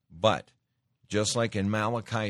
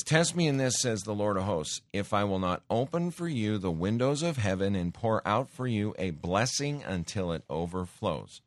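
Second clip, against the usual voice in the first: declaimed challenge; 2 semitones higher than usual. Acted. Preacher declaiming God's challenge.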